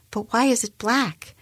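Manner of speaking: high, incredulous question; agitated disbelief. A narrator's reading. Boss questioning employee's hair colour, high-pitched disbelief.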